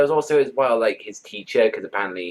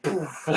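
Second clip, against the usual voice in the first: imitated poof; 7 semitones higher, 9 dB quieter than usual. Imitates pig bite, pulling out.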